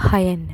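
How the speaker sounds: ஹயன் opened with a clear breathy h; h sound. Shown as a demonstration. Teacher showing pupils the h sound at the start of ஹயன். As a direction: push air out on the h of ஹயன். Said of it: "sound எச் ல தான் உச்சரிக்கணும்".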